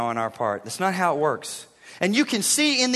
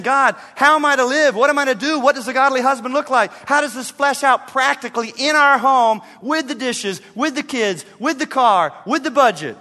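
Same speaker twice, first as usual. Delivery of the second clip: higher, louder searching questions; earnest plea; 5 semitones higher, 4 dB louder than usual. Retold or imitated. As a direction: pray it out, really asking. Voicing husband's earnest prayer.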